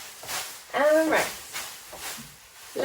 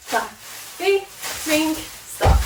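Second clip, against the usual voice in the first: calling out moves; 5 semitones higher, 5 dB louder, much slower than usual. Shown as a demonstration. Calling cheer moves to class.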